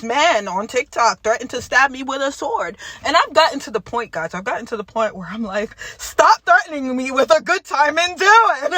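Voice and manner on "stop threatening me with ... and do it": laughing defiant taunt; laughing dare. Retold or imitated. Daring the TikTok man, laughing.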